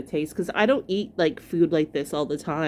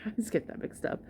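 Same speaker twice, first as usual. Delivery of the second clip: laughing; 4 semitones higher, 10 dB quieter, faster than usual. Real, not acted. Laughing at own mix-up.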